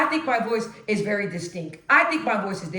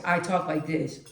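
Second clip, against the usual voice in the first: drops into her everyday deeper voice; regular lower voice; 6 semitones lower, 4 dB quieter than usual. Shown as a demonstration. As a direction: let the voice sink low and relaxed. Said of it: "my regular speaking everyday voice".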